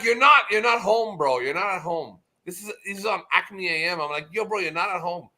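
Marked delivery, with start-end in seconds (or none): 0.0-2.2 shouted, higher and louder, fading off at the end; yelled rebuke. Retold or imitated. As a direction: bark it at a friend who went too far. Telling off Oz in chat.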